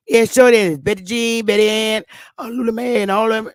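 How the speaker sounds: thick Southern talk, names run together; Southern dialect. Acted. Southern woman listing her household to census taker, Southern dialect. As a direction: reel off names in a Southern accent. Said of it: "white people can't understand that shit".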